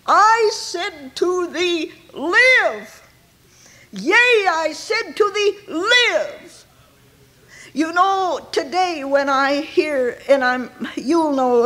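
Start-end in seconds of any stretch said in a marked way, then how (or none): 0.1-6.6 commanding. Acted. God commanding the dying soul to live, ringing. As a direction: proclaim it like God raising the dead. Preacher voices God's command.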